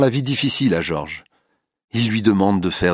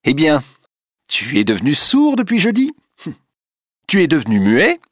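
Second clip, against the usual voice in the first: furious taunting shout, much higher; with rage; 9 semitones higher, 5 dB louder than usual. A narrator's reading. Rachel screaming at Duroy who ignores her, furious taunt. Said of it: "ajoute Rachel avec rage".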